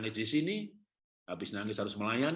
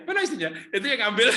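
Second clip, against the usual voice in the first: laughing quote; 10 semitones higher, 8 dB louder than usual. Retold or imitated.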